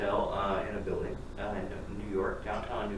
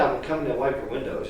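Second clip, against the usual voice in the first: booming punchline voice; hammed-up boom; loud mock villain; 6 dB louder than usual. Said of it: "She said".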